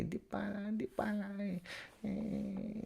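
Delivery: tiny, high, very soft mock voice; Dybala. Trying to imitate a player on request, faint high squeak. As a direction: squeak it faintly as a failed impression. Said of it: "imitate Dybala".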